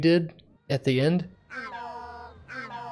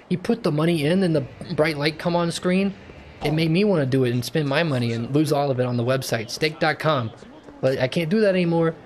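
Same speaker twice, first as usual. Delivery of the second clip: mock viewer; 2 semitones higher than usual. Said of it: "Flimbons, what is your thoughts".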